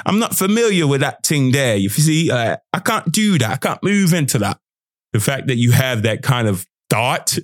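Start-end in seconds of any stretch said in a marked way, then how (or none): 0.0-4.6 higher, hesitant self-doubt; a touch of an unsure inner voice. Retold or imitated. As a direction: timidly talk yourself out of it. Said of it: "that idea in your head that says".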